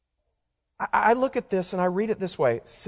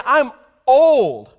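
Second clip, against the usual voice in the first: Sarah scoffing, higher and louder; mock Sarah voice; 6 semitones higher, 9 dB louder than usual. Preacher voicing Sarah's disbelieving scoff. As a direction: scoff it out like an old woman. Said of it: "she's sort of laughing to herself in disbelief".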